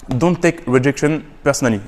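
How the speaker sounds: English read with a French accent; unpolished French accent in English. Real, not acted. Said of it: "Désolé pour mon accent, euh, crappy".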